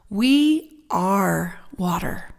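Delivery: slow breathy whisper; whispered reverently, drawn out. Acted. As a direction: hush it like a secret blessing. Opening the water blessing.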